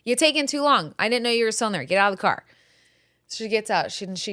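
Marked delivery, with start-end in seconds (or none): 0.1-2.5 higher, brisk mock mom; impatient mom. Grandma hurrying the kid out of the car, impatient. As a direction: hurry the kid out, a touch sharp. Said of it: "my mom's like".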